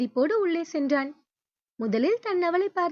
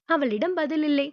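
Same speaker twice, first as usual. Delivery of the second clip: ordinary delivery, nothing marked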